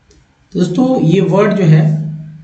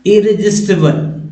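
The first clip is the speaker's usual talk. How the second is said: slow careful reading; 3 semitones higher than usual. Shown as a demonstration. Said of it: "तो कैसे पढ़ेंगे?".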